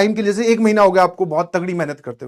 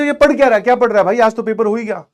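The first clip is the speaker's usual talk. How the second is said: higher, louder amazed asking; asking in disbelief, raised voice; surprised question; 3 semitones higher, 5 dB louder than usual. Retold or imitated. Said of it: "मैंने पूछा". (हैरानी से ऊँची आवाज़ में पूछना)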